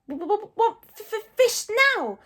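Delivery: high, loud, stuttering dragon demand; bratty squeaky creature; hissing Toothless. A narrator's reading. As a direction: stammer each first sound, then demand it loudly. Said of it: "hissed Toothless".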